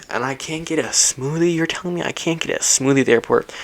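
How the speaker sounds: high incredulous question; disbelief. Retold or imitated. Frustrated traveller asking the airport staff, incredulous. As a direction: ask it in high outrage. Outraged at no smoothie.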